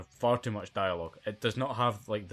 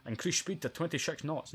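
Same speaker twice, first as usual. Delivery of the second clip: a hint of a Scottish lisp, mildly imitated; Sean Connery impression; 6 semitones higher than usual. Mocking the actor to a friend, a light Scottish impression. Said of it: "talking like this all the time".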